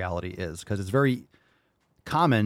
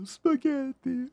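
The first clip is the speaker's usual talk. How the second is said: mock Italian; much slower than usual. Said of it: "In Italiano".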